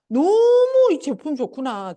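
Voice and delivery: loud, drawn-out gushing admiration; acted delight. Active consumer marvelling at the product, hammed-up delight.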